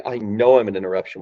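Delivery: "know" hammered within an even line; firm emphasis on the word "know"; stress on KNOW. Shown as a demonstration. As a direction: put the weight on "know". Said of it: "with a big hammer on the word".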